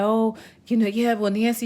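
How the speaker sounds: high, put-on voice for the mechanic's excuses; imitating the mechanic. Retelling the mechanic's excuse to a customer, high mocking voice. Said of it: "He's like".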